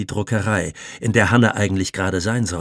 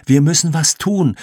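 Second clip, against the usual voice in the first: higher, louder urgent call; 7 semitones higher, 5 dB louder than usual. A narrator's reading. Jannik calling to Loni to act, urgent call. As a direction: call out, pressing them to act. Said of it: "rief Jannik".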